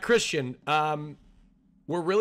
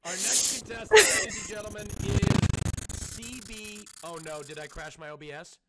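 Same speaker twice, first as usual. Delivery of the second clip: game show host. Acted.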